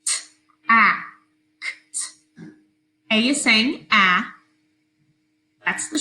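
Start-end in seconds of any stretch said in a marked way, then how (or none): 0.1-2.5 "tact" whispered, then "T, a, k, t" sound by sound. Shown as a demonstration. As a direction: whisper each sound apart. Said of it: "second syllable".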